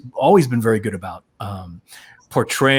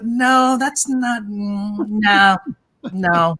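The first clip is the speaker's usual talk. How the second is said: dismissive casting director; 7 semitones higher, much slower than usual. Retold or imitated. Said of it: "And she's like".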